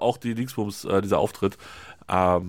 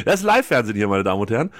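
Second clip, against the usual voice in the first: TV announcer; 2 semitones lower, 4 dB louder, faster than usual. Pretend. Mock TV host after failed photo.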